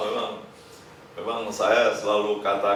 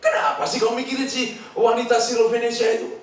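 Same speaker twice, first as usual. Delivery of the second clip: grumbling disciple; 11 semitones higher than usual. Retold or imitated. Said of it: "Kadang marah-marah dikit".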